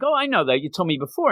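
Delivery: knowing daughter. Retold or imitated. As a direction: lightly play the girl showing she already knows. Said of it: "She's like".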